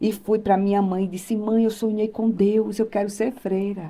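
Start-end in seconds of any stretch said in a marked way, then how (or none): 1.4-3.9 crying through sobs, tearful and sobbing. Retelling waking from a dream and going to the mother: imitating own past sobbing. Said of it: "E eu acordei chorando, soluçando".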